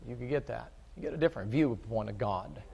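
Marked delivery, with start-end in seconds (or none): 0.1-0.7 quiet echo. Shown as a demonstration. Preacher repeating the point softly to the congregation. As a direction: say it again under your breath to let it sink in. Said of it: "if you could get that".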